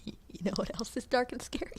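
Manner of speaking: hushed, eerie whisper; spooky whisper. Pretend. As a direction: whisper it like a ghost story teaser. Spooky aside to viewers.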